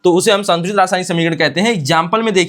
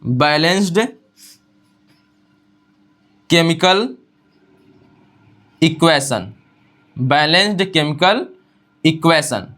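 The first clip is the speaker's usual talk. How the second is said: English term given word by word with pauses; slow dictation; 2 semitones lower, slower than usual. Shown as a demonstration. Teacher giving the English name slowly, word by word. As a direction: spell out the term for copying. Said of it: "अंग्रेजी में इसी को बोलते हैं".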